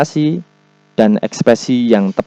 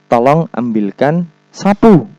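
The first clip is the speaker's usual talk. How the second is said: "Tolong ambilkan sapu" with the pitch lifted toward SAPU; exclamation-mark command, raise the tune on "sapu"; intonasi perintah naik; 3 semitones higher than usual. Shown as a demonstration. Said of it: "nadanya naik". (kalimat perintah dengan nada naik di "sapu")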